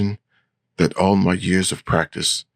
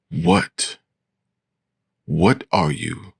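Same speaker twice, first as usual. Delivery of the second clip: mocking girl voice; 2 semitones higher, much slower than usual. A narrator's reading. Vampire mimics her question.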